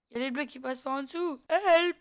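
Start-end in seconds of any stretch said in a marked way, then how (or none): 1.5-2.0 mock cry for help, high and loud; cri à l'aide. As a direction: yell a playful, high-pitched "help". Calls for help in game. (appel au secours crié, aigu)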